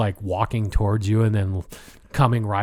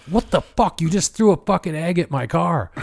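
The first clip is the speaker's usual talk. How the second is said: higher, indignant mock outburst; mock angry; 7 semitones higher than usual. Driver confronts the kids who egged his car, mock indignant. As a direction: play the annoyed driver, exaggerated.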